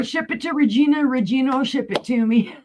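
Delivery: high-pitched imitated voice; mimicking another. Retelling George's plan to ship via Regina, high mimicking voice.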